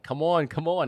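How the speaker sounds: high mock beckoning shout; calling out. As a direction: wave them in, loud and high. Beachgoers waving him in.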